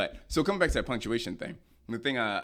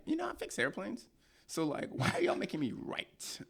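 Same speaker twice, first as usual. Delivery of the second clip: mock exasperation; 10 semitones higher, 6 dB quieter than usual. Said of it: "I'm sitting here like".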